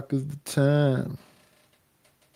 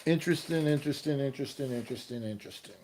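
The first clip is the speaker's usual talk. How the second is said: each interesting softer until it trails away; fading repetition; 7 dB quieter, much faster than usual. Pretend. Musing to himself about the endless creativity, fading out. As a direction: let interesting fade to nothing.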